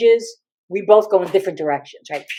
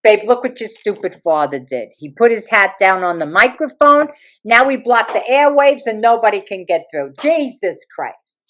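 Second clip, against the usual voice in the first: exasperated mother; 4 dB louder than usual. Retold or imitated. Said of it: "I hear my mother go".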